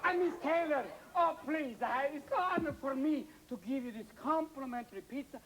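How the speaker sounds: gushing Italian pizza man; Italian accent. Acted. Pizza man fawning over Miss Taylor, Italian accent. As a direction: play an excitable Italian delivery man. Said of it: "stop using that ridiculous Italian accent".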